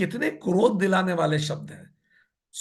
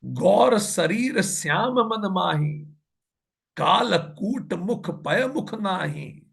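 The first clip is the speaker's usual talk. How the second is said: slow, drawn-out scripture chanting; measured devotional verse reading; verse recitation; much slower than usual. Acted. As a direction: recite the couplet slowly, stretching each word.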